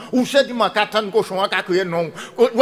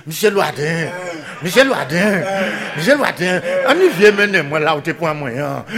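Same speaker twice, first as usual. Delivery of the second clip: laughing mock pig's cry calling the name; 2 semitones lower than usual. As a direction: call him like a squealing pig, half laughing. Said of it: "qui a crié".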